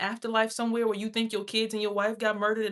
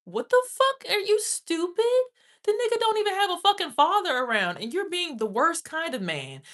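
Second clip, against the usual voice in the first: much higher and louder, screaming in disbelief; furious shout; 8 semitones higher, 5 dB louder than usual. Real, not acted. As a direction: explode at him, shrieking. Furious rant at a man.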